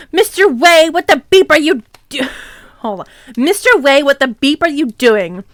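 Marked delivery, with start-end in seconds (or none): 0.1-2.3 mildly angry mock shout; half-hearted indignant scolding. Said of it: "Rumbridge shouted angrily". 3.4-5.4 mildly angry mock shout; half-hearted indignant scolding. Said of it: "Rumbridge shouted angrily".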